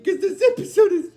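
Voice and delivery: high, giggly explanation; real leftover giggles lifting the voice; talking through laughter. Real, not acted. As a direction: try to explain while still chuckling. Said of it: "explain why I'm laughing".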